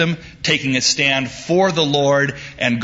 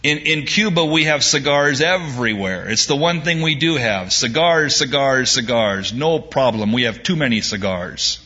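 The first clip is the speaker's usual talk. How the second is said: a hint of a Cuban shrugging it off; Cuban accent; 3 semitones higher than usual. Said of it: "said the Cuban".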